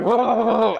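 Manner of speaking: short mock shudder of being shocked; imitated buzzing groan; demonstrated torture noise. Shown as a demonstration. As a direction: show the electrocution noise. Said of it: "You're making this noise, like".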